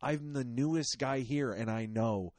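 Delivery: acted indignant inner rant; mock outrage at clueless coworkers; pissed off. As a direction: rant as if appalled by the idiots around you. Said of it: "so you get extra pissed off".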